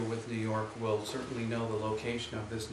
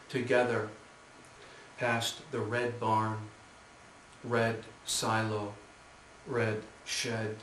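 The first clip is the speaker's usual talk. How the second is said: unhurried poem recital with spaced phrases; measured poet's delivery; poetry reading. Acted. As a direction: read the verse deliberately, pausing after each image. Continues reading poem after cough.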